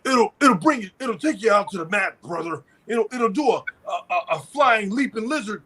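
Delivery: hyped-up wrestling promo, light imitation; wrestler promo voice. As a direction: hype it like a wrestler. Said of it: "In the words of the holster".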